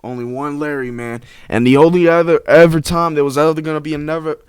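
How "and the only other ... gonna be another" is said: tripping over the words; stuttering. Real, not acted. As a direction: stumble and restart mid-sentence. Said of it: "I'm stuttering, bro".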